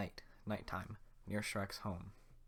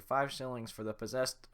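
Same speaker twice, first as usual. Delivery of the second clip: guard voice; 4 semitones higher, 5 dB louder than usual. Acted. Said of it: "Head guard".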